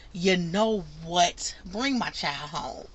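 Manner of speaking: lightly voiced mom asking for her child back, slowly; worried mother. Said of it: "she was just like".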